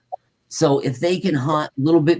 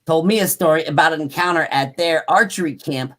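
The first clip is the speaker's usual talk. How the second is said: projected, deliberate account reading; story read-aloud. A narrator's reading. Host reading about tracks and yells, story read-aloud.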